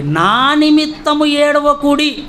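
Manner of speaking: solemn quotation. Retold or imitated. Repeats Jesus' words from scripture.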